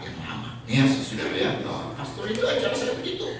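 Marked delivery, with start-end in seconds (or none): 1.7-3.3 put-on a lightly accented pastor explaining, amused; imitating the Korean pastor. Korean pastor voiced in English.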